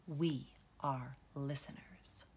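slow hushed whisper. A narrator's reading. Uncle teaching the cubs, slow whispered refrain. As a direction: breathe the lesson softly.

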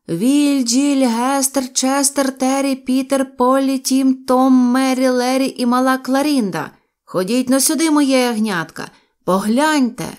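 high, loud roll call of names; joyful shout. A narrator's reading. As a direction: excitedly summon all the children to look. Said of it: "радісно крикнув я". (радісно гукає дітей)

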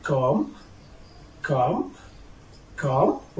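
"calm" with no L sound; teacher's careful "calm", vowel straight into m; silent L. Shown as a demonstration. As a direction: model "calm" as "cahm". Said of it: "I will start with silent letter L".

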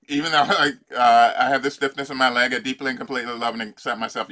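mock-grudging recital, a laugh breaking in; sarcastic recital. Coach mocks a client who doesn't believe it, sarcastic. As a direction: rattle off the affirmation like you don't buy it. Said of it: "If you go".

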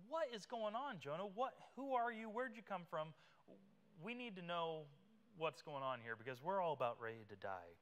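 high, urgent questions from frightened sailors; scared sailors. Acted. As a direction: press him for answers in a panic.

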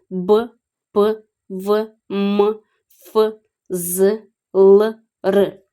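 each consonant as a short hard sound, "Б, П, В, М, Ф, З, Л, Р"; "Б, П, В, М, Ф, З, Л, Р" sounded out hard, one at a time. Shown as a demonstration. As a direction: list "Б, П, В, М, Ф, З, Л, Р" as separate sounds, none softened. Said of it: "Вони завжди будуть тверді".

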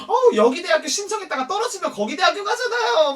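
high, loud, laughing dig; acted-out catty mockery; mocking put-down. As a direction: pile on gleefully in a high voice. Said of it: "존나게 씹어대꼈어".

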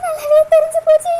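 the repeat bursts out in a wail. Acted.

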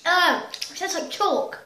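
slow, with a mouthful of gum; chewing while complaining; eating sour candy. Real, not acted. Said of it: "I'm gonna spit this out".

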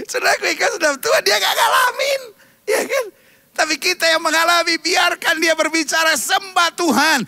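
fervent preacher crying out; crying preaching shout. Acted. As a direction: cry out to the congregation. Preacher peaks with cries.

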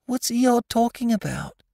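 very high little voice, only mock-whispered; Piglet's whisper. A narrator's reading. Piglet asking Pooh on the side, high-pitched aside. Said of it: "Piglet whispered to Pooh".

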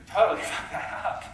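words breaking into laughter; laughing admission. Retold or imitated. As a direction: own up through a laugh. Acts leader owning up, laughing.

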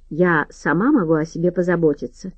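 ordinary delivery, nothing marked

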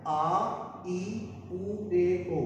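each vowel आ ई उ ए ओ said clearly with pauses; drilling vowels. Shown as a demonstration. Japanese teacher drilling vowel sounds. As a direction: model the vowels for students. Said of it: "Urdu के अंदर भी लिख दिया".

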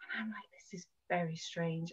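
hushed aside to self; low, near-whispered retold thought; private puzzlement. Speaker thinking over repeated prophecies, quietly puzzled.

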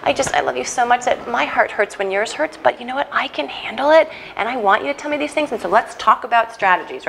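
a lightly voiced tender mom comforting her kid; reassuring parent. Shown as a demonstration. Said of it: "you can say".

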